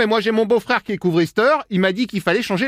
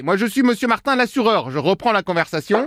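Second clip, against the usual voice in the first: pretend Martin. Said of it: "vous avez la même voix que tout à l'heure".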